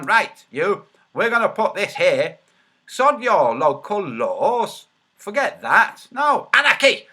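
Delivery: loud, cocky imitation, rising to a shout; hammed-up rebel declaration; mock defiant protester. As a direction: act out brash defiance, building to a high yell. Acts out protesters defying local laws.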